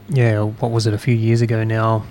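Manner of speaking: words through a beer burp. Real, not acted. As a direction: burp while talking. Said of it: "Excuse me as I have a beer burp".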